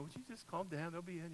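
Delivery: hint of an eye-rolling wife hushing him; mildly exasperated wife. Wife Michelle telling her worried husband to relax, lightly exasperated. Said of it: "Michelle's rolling her eyes".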